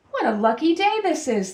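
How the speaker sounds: put-on a young donkey thrilled by his luck; excited. Sylvester delighting in his magic pebble, excited. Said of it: "thought Sylvester".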